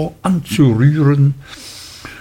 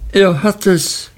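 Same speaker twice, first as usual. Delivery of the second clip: high, panicked cry; alarmed cry; 8 semitones higher than usual. A narrator's reading. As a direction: shriek it out in fright. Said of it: "rief Miss Murdstone". (hoher, panischer Ausruf)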